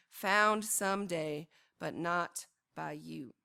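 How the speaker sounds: measured poem recital, phrase by phrase; poetry reading. Acted. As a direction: recite the poem evenly, weighing each phrase. Reads own poem aloud.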